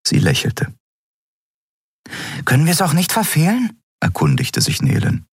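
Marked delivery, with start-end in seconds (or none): 2.5-3.8 high, quick and chattering; breathless high little creature's voice; small flying creature voice. A narrator's reading. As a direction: speak fast and high like a tiny winged creature. Nelen's voice again.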